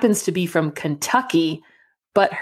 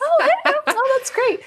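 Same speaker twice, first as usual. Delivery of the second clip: smiling guard. Retold or imitated. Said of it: "He was still like".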